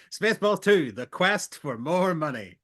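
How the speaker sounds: loud, high, grandly stretched title; over-the-top trailer announcement; mock title announcer. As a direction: proclaim a spoof sequel. Parody sequel title announced.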